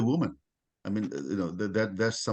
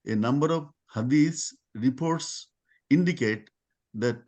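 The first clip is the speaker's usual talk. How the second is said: halting, phrase-by-phrase read-aloud. Real, not acted. Lecturer reading something from Wikipedia to listeners, measured read-aloud. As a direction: read the article out in measured chunks.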